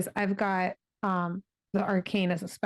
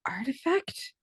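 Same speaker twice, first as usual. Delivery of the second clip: hushed ominous whisper; a player whispering the mysterious word; 6 semitones higher, slower than usual. Real, not acted. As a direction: breathe the word like a secret.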